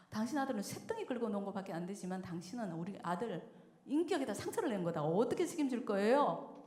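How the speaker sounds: imitated firm, mild reproach; retold stern seriousness. Wife defends son to husband, mildly stern retold rebuke. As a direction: quote a wife holding her husband to account. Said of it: "정색을 하고 이렇게 말했어요".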